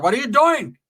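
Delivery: high-pitched aunt calling out; startled aunt. Retold or imitated. Aunt catching nephew with a hammer, high mock outcry. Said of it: "My tia's like".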